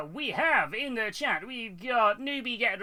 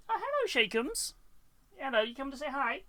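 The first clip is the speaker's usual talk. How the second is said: much higher sing-song voice for the dog; high doting voice greeting the dog; pet talk; 7 semitones higher than usual. Real, not acted.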